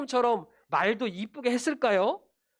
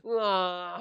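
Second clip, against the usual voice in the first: drawn-out pretend "waah"; mock crying wail; much slower than usual. Scolded lost child bursting out, mock crying. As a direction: imitate a child bawling, without full force. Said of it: "하고 울면서".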